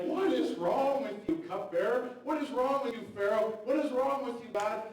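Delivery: mock angry outburst. Joseph venting at cupbearer, Pharaoh and God, mock angry. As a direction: hurl the question like a wronged prisoner.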